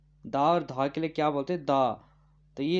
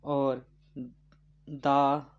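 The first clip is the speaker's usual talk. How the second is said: slow dictation; much slower than usual. Shown as a demonstration. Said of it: "ता था के लिए क्या बोलते थे".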